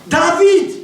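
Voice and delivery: cri joyeux, aigu et fort, en riant; cri de joie. Retold or imitated. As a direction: exulter en criant le nom. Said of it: "En criant comme ça". (cri de joie au commissariat, en riant)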